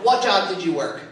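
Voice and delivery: "What job did you work?" pushed low and heavy, overdone; too much. Shown as a demonstration. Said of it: "No, too much. Not what I want".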